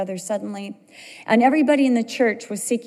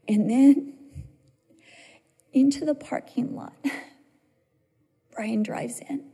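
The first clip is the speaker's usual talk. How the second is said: breathless whisper, holding the moment; hushed whisper; 2 semitones higher than usual. Real, not acted. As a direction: drop to a whisper as rescue arrives. Hushed build-up to relief.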